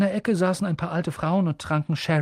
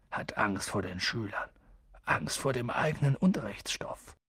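softer, a giant confiding with a grin; vertraulicher Hagrid; 4 dB quieter than usual. Acted. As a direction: let him in on a secret. Hagrid erzählt über Quirrell. (Hagrid, leise und vertraulich zu Harry)

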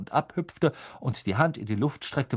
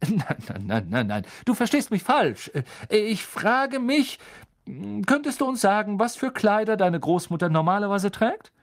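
higher, louder friendly professor voice; kind teacher; 10 semitones higher, 4 dB louder than usual. A narrator's reading. Teacher explaining the spell to the class, higher and friendly. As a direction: explain patiently like a gentle teacher.

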